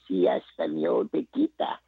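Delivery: a hint of wife trying out her Spanish; imitating wife's Spanish. Husband lightly mimics his wife practicing Spanish. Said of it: "practicing her Spanish now".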